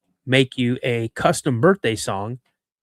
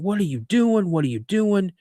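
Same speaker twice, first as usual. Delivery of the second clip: higher-pitched imitation of a yelling instructor, no real volume; mock yelling; 6 semitones higher than usual. Instructor running up to his trainee, mock yelling. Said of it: "he starts yelling".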